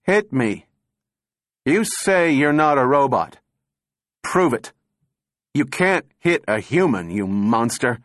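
sudden energy. A narrator's reading. Thin man dares the candidate before a crowd, sudden forceful energy. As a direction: throw the dare out high and loud. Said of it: "With sudden energy".

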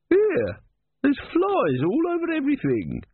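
high, sharp complaint; a customer pointing at the flies; complaining woman. A narrator's reading.

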